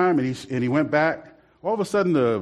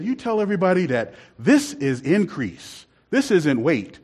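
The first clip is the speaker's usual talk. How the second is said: imitating comedian; 3 semitones higher than usual. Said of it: "He said".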